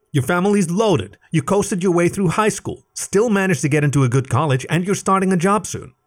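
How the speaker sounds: high, sharp accusing voice; indignant cat rant. A narrator's reading. Alec berating rich friend Leif: high indignant rant. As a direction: hurl his privileges at him.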